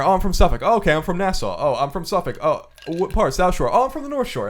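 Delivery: lilting ritual question-and-answer rhythm; conversational cadence. Shown as a demonstration. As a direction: play both sides of a routine exchange. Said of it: "there's a whole cadence".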